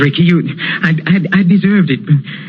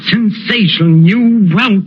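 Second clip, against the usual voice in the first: choked up; 8 semitones higher than usual. Acted. Maestro overcome reciting old headline.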